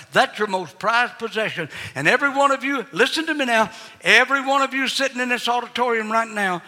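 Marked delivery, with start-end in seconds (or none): 1.9-6.6 higher, pressing appeal; preaching. Acted. Preacher appealing to the whole auditorium, raised. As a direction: press every listener directly.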